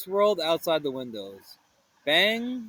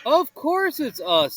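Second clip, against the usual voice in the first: Fred voice; 9 semitones higher, 5 dB louder than usual. Acted. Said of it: "said Fred".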